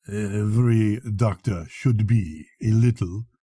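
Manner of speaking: imperturbable. Acted. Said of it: "answered that original imperturbably".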